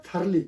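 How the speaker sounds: thoroughly said firmly and clearly, teacher style; correct pronunciation. Shown as a demonstration. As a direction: model thoroughly cleanly for the class. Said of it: "ये actual word होता है". (thoroughly का सही उच्चारण, ज़ोर से)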